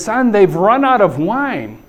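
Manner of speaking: implying hint. Acted. Mother nudging her son to fix it, hinting. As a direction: stretch it out, implying he should act. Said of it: "implies that you can, can handle this".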